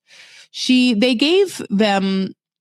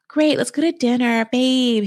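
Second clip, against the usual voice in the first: higher-pitched mock-eager girlfriend; 5 semitones higher than usual. Girlfriend agreeing to dinner after being refused, mock-eager. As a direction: play the girlfriend gamely going along.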